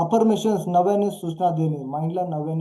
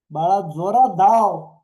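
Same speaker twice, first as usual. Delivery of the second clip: slow, louder cheering-on call; encouraging parent; 7 dB louder, slower than usual. Acted. Parent backs running toddler, acted encouraging call. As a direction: urge the child on with drawn-out words.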